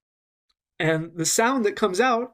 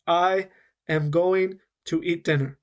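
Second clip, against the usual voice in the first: careful unlinked. Shown as a demonstration. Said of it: "It's very slow, and I'm saying every sound".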